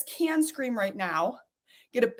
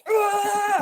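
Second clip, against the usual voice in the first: disgusted grunt; 8 semitones higher than usual. Retold or imitated.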